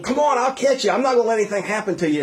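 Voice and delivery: high coaxing call, then hurried promise; reassuring father. Retold or imitated. Dad in the pool promising to catch his child, high coaxing call. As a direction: promise the kid you'll catch him.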